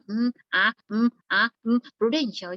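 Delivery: halting hmm-ah before answering; unsure, stalling reply; hesitant. Shown as a demonstration. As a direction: stall and hem before finally saying it. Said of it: "Jangan teman-teman, ketahuan lu ragu".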